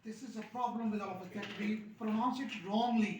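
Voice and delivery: slow teacher delivery. Shown as a demonstration. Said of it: "teacher slowly explaining mispronunciation".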